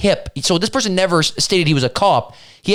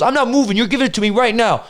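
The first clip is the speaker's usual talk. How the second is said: mock stubborn refusal; 5 semitones higher than usual. Retold bystander refuses to back down.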